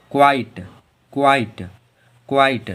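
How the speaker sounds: क्वाइट said "kwait"; model pronunciation. Shown as a demonstration. Teacher drills क्वाइट three times. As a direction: glide क्वाइट from K into W. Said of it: "Q U I T E".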